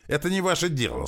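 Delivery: furious high squeal at the mocking rival; breaking into a squeal. A narrator's reading. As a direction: voice cracks up into a squeal. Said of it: "снова сорвался он на визг".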